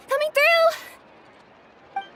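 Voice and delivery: very slow, high, stretched call rising at the end on "through"; drawn-out call. Acted. Courier rushing, calling out to crowd.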